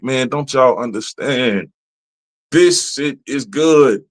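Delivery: slow, drawn-out plea; slow pleading. Retold or imitated. Begging the movie studios for a sequel, slowly. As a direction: beg them to see it's good. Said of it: "I'm like".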